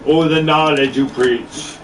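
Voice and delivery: slow chanted hook in a Jamaican accent. Shown as a demonstration. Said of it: "I wanna sing in a Jamaican accent".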